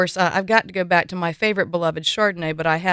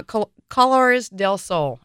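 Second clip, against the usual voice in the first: Spanish accent; 3 semitones higher, 3 dB louder, slower than usual. Real, not acted. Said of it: "that is my accent coming through".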